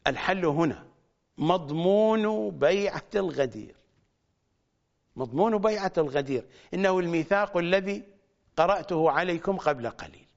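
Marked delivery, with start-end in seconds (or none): 1.4-3.8 مضمون بيعة الغدير said slowly, word by word; slow emphasis. Acted. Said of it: "repeated phrase, slow take". 5.2-6.5 مضمون بيعة الغدير said fast and a bit softer; quick softer repeat. Acted. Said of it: "repeated phrase, quick take".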